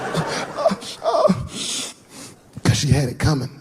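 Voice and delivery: put-on stammering small-boy voice; little kid. Son explaining to the room why he hit her, stammering kid. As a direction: stutter then blurt it out. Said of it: "He was like".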